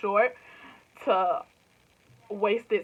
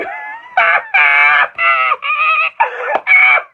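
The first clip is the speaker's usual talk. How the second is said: loud laugh; 12 dB louder than usual. Real, not acted. Laughing at international fans.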